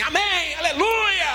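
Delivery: high shouted amen and hallelujah; imitating congregation. Preacher mimicking the crowd's eager shouted amen. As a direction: cheer it back like an eager crowd. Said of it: "eu acho que eu vou escutar assim".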